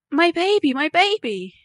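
high, excited mother's cry; joyful shout. A narrator's reading. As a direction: exclaim it high, overcome at the find. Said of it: "she shouted".

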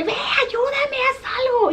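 very high, whiny plea for help; pleading with partner. Retold or imitated. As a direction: beg your partner to do something. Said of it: "Cuando está tu pareja y es como que".

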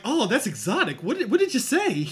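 a hint of a fascinated, high lady; lightly voiced wide-eyed lady; mock fascinated white woman. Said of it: "Sarah Gilbert been like".

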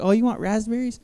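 high-pitched indulgent parent question; lilting parent-to-toddler voice, rising at the end; doting parent. Retold or imitated. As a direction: coo it back to a toddler. Dad answering his toddler sweetly.

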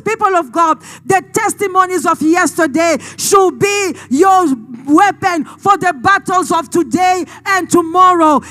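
forceful, emphatic sermon storytelling; impassioned preaching. Real, not acted. Preacher recalling God's past victories for the congregation, impassioned. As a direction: preach it with conviction.

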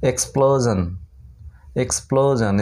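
teacher repeats এক্সপ্লোশন ending in -zhan; pronunciation demo. Shown as a demonstration. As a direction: model এক্সপ্লোশন clearly for students. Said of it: "জান হচ্ছে উচ্চারণ".

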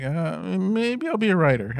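wry retort. Retold or imitated. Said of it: "he was like".

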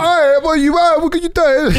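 high, hammed-up fake British accent; really bad British accent. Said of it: "it was really bad".

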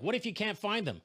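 high worried objection; high, worried "what if"; doubting friends. Retold or imitated. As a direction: friends fretting about the plan. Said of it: "they're like".

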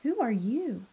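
mildly astonished question; surprised. Acted. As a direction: ask it in storybook surprise. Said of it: "very much surprised".

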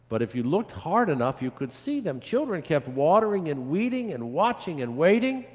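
put-on lively, rhythmic listing for children; storybook read-aloud. A narrator's reading. Pastor reads of children tending a tree, lively storytelling. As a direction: read it as an unfolding tale.

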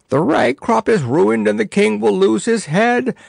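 the aged wise man bursting in out of breath; panting. A narrator's reading. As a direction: gasp the bad news out after running. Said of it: "panted Pudge".

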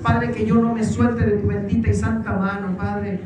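fervent led prayer with rising pleas; earnest preacher's prayer over the people; leading prayer. Acted. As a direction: pray aloud for the congregation, pressing each petition. Leads congregation in prayer.

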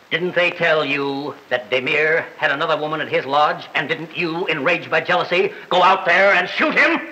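formal prosecutor pressing a witness; courtroom cross-examination. Acted. Prosecutor accusing the defendant in court, formal and pressing. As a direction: press the question, building to the end.

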